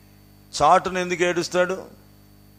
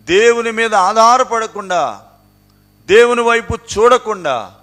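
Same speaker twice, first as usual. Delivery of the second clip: higher and louder, hammering each phrase of the list; preaching at full force; 7 semitones higher, 8 dB louder than usual. Acted. Preacher rebuking his congregation over their pride, fiery preaching. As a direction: build a fiery sermon rebuke, line by line.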